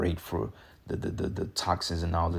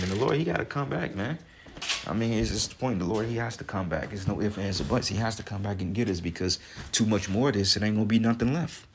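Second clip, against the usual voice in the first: fervent raised-pitch preaching; 3 semitones higher than usual. Real, not acted. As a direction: insist the Lord must come back. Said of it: "preaching the Lord's return".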